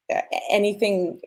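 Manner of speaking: ordinary delivery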